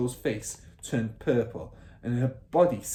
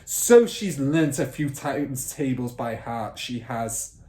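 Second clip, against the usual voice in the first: loud mocking bark; 2 semitones higher, 7 dB louder than usual. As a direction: bark it dismissively. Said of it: "Miss Trunchbull barked".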